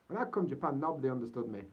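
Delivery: Yorkshire accent. Shown as a demonstration. Vlogger in Japan repeats his line for viewers, broad Yorkshire accent. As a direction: drop into full Yorkshire for the line. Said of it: "I'll say that again in Yorkshire".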